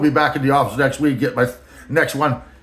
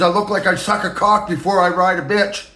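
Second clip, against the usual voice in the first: higher mock boss voice, slowing at the end; 5 semitones higher than usual. The boss describing his looks, in a high mocking voice. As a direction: lampoon the boss rambling about himself. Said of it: "I'm just filling in voice".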